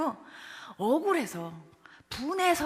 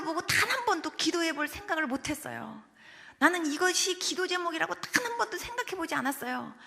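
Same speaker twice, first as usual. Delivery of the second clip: higher, emotional, pleading protest; imitated tearful confession; 4 semitones higher than usual. Weeping mother confessing she never prayed, imitated with emotion. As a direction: retell it as a mother overcome. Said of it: "그분이 막 울더니 첫 마디가".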